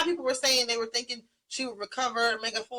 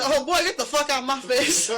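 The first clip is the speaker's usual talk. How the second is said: laughing; 4 semitones higher, 5 dB louder than usual. Retold or imitated. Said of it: "She said".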